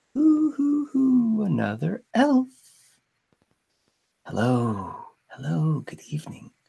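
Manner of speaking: soft, very high little owl hooting voice. Voicing an owl that greets someone on watch, in a quiet owl voice. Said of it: "you hear a quiet voice".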